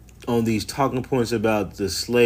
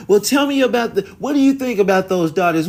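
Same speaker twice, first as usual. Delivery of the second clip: mock interviewer; 8 semitones higher, 3 dB louder, faster than usual. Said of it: "they make it up as they go along".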